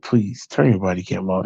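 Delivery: put-on hushed, pleading drunk half-whisper; imitated drunk whisper. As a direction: beg softly like a tipsy chief. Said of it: "He's whispering".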